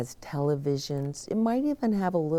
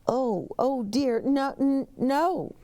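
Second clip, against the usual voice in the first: high, flustered oh dear; flustered high bellhop; alarmed bellhop; 8 semitones higher than usual. Acted. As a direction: panic in a high fluttery voice.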